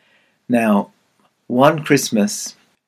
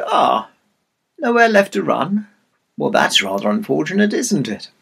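mock-sympathetic sly fox; lightly voiced smug fox; casual fox; 2 semitones higher than usual. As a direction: toy with cornered prey, unhurried. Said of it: "the fox strolled casually into sight".

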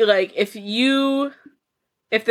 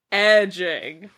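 laughing; 6 semitones higher than usual. Real, not acted. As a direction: cackle after the word. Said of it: "say it with me".

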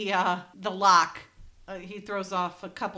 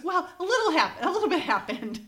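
laughing; 8 semitones higher than usual. Retold or imitated. Coy confession in retold scene.

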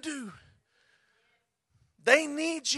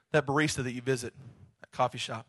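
soft teasing God; 11 semitones lower, 7 dB quieter than usual. Acted. God teases Reed.

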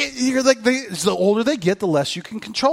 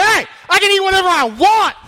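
much higher, louder gleeful cheer; mock glee; 12 semitones higher, 7 dB louder than usual. Preacher mocking his own excuse to skip diets, gleeful. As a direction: gloat like you found a loophole. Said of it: "I'm like".

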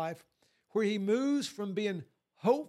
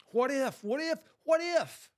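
each what if higher and louder; building what if; 6 semitones higher, 4 dB louder than usual. Acted. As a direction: press the question harder every time. Preacher repeats the fear question.

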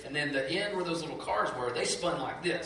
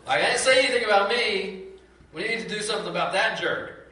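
loud, high outraged objection; indignant protest; 5 semitones higher, 8 dB louder than usual. Retold or imitated. Believer protesting to God about a prayer, outraged and loud. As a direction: throw up your hands, this isn't what I asked for. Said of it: "you're like".

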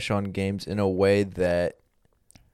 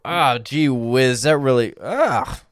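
put-on wholesome 1950s kid; 2 semitones higher than usual. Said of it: "That's how Mormons play".

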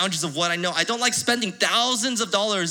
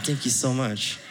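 laughing thanks; 7 semitones lower, 5 dB quieter, slower than usual. Retold or imitated. Grateful but annoyed at officer.

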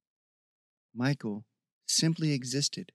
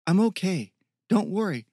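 calling reassurance; 6 semitones higher, 5 dB louder than usual. A narrator's reading. Calling reassurance across distance.

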